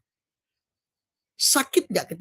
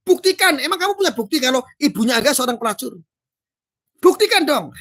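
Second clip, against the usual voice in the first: angry demand; 4 semitones higher than usual. Acted. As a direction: challenge him to prove it. Voicing a challenging comment. (menuntut bukti dengan marah)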